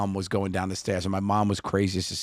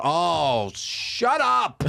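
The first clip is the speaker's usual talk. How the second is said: daughter's mock shut up; 8 semitones higher, 4 dB louder, much slower than usual. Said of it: "She went".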